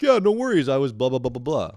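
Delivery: bubbly breezy quote; imitating a friendly fan. Retelling the fan's casual reply, high and bubbly.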